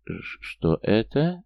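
hoarse shocked gasp; suddenly hoarse. Acted. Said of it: "внезапно охрипнув".

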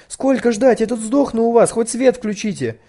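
loud, high angry cries; frantic shouting. A narrator's reading. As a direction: shout at the dispatcher. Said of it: "сколько девочка не кричала". (громкий истеричный крик)

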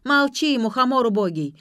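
loud high furious shout; screaming insult; yelling. A narrator's reading. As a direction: yell at the old man to shut up. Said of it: "заорала блондинка".

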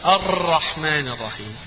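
الرحمن الرحيم with exaggerated doubling, slowed; over-doubled. Shown as a demonstration. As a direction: overdo the shadda in الرحمن الرحيم. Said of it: "إن زادها". (مبالغة في التشديد)

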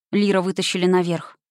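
ordinary delivery

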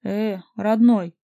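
slow, drawn-out mocking tone. A narrator's reading. Stranger mocking a jealous caller, slow and sneering. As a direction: drawl it out to belittle him. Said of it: "насмешливый голос".

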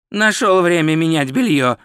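mild irritated growl; understated exasperated snarl. Acted. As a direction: grumble it crossly at a companion. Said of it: "зарычал Ринсвинд".

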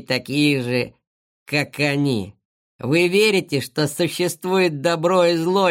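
slow, lightly voiced gloating villain. Kosoy gloats over the trapped friends, slow and smug. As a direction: lecture them with smug menace.

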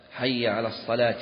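الصلاة ending in an i vowel; case-ending demo. Shown as a demonstration. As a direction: say الصلاة closed on "-ti". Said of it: "يخطئ فيه من جهة الإعراب".

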